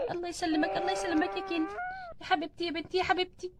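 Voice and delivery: hushed, gentle voice; tender and soft. Acted. Family greeting new mother after birth, soft and tender. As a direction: speak softly after the ordeal.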